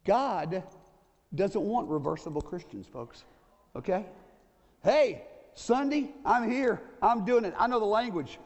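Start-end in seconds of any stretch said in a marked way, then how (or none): 4.8-8.4 bright, upbeat Sunday Christian voice; churchy Sunday self. Acted. Preacher acting out his Sunday self for the congregation, upbeat.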